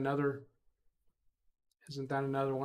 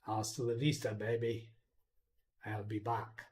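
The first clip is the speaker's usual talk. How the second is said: lower, softer robotic movie-villain voice; second go at the movie line, lower and softer; imitating the Terminator; 5 semitones lower, 6 dB quieter than usual. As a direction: growl it low like a cyborg. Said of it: "I'll try to do that better".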